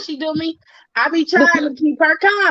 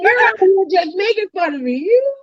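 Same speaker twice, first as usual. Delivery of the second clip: mock outrage; 4 semitones higher than usual. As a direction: play it wounded but laughing. Mock outrage at friend's impression.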